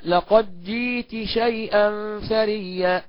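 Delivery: "جئت شيئا" with the تاء distinct; clear pronunciation. Shown as a demonstration. Teacher demonstrating izhar slowly. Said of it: "يبقى الإظهار هكذا".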